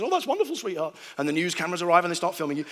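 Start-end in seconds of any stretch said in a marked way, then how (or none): 0.0-1.0 high, sing-song doting mother; doting mum. Retold or imitated. Mother to her lucky child on the phone: high doting voice. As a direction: coo it like a proud mum. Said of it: "my mum doesn't sound like that".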